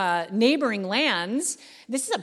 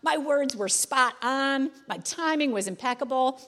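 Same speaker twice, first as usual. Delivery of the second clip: mock self-congratulation; 3 semitones higher than usual. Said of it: "Nehemiah doesn't say".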